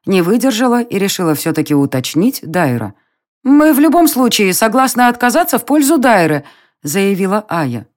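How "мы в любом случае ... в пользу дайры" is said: eager. A narrator's reading. Aya declares.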